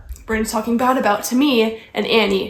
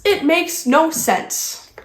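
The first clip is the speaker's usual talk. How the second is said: slow, falling "no sense"; resigned repeat; 4 semitones higher, slower than usual. Real, not acted. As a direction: let "no sense" drop, slowly, fed up. Repeats line, coming down.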